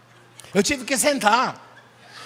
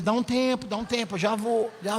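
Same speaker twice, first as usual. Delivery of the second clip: fading brush-off; 6 dB quieter than usual. Retold or imitated. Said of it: "eu fazia assim pra ele".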